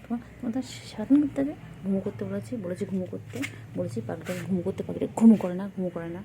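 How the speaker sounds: loud, fussing mock telling-off; playful scolding. Real, not acted. Owner to a bird that won't sleep, playful scolding. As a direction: scold a pet with affection, bursts of volume.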